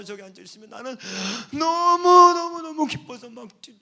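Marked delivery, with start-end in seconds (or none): 1.5-3.8 bursting with joy, high and loud; overjoyed. Retold or imitated. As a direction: gush with over-the-top delight. Pastor overjoyed at congregant's arrival.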